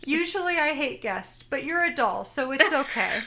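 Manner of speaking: put-on hint at a matter-of-fact little girl. Child telling a doll she usually hates guests, lightly voiced little girl. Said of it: "just little girl fashion".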